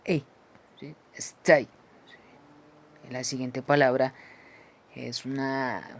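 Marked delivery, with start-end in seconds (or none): 1.1-1.6 English diphthong EI; E glide. Shown as a demonstration. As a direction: stay with E gliding into I. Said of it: "es una E con una I".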